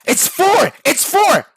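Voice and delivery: high, loud desperate yelling; frantic shout. Acted. Shotcaller yelling at a team that won't listen, in a frantic shout. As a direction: scream the answer at the team. Team ignores his calls.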